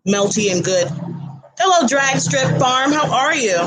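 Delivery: talking through a mouthful of food; words round a bite of tortilla; mouth full. Real, not acted. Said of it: "talking with my mouth full".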